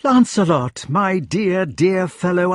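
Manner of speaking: high, excited greeting; overjoyed. A narrator's reading. Knight running back to his friend, overjoyed. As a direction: greet a long-lost friend with delight.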